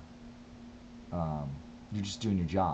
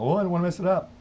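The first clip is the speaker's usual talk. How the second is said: mock nervous whine; 11 semitones higher, 7 dB louder, much faster than usual. Nervous thought voiced.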